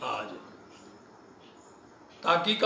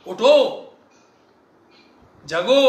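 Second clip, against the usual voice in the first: slow, tender call to the souls; slow loving plea; lovingly; 2 semitones higher, 6 dB louder, slower than usual. Retold or imitated. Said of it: "कितने प्यार से बोलते हैं".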